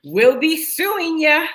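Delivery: slow, sing-song "We'll be suing ya"; drawn-out punchline. Pretend. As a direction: stretch out the pun like a goodbye. Dad joke punchline.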